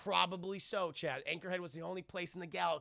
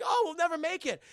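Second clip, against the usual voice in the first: high, loud mock fretting; C-3PO despairing; 10 semitones higher, 7 dB louder than usual. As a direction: wail in hammed-up dismay. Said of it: "C three P O was like".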